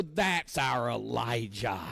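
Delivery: slow, proud cheer of a fan in a different voice; mock crowd cheer for the hero. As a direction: say it like a cheering supporter. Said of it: "we like because we go".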